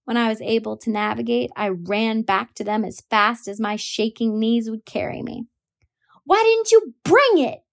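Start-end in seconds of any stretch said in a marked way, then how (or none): 6.2-7.6 high, loud furious yell. A narrator's reading. Boy yelling at his sister over the tire, high and loud. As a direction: throw the question at her. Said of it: "Jem yelled".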